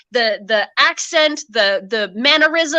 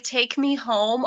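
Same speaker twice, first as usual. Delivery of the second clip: soft quote; 6 dB quieter, much slower than usual. Retold or imitated. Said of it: "Ezra was like".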